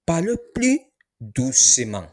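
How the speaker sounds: teacher model of Parlez plus doucement; high start model. Shown as a demonstration.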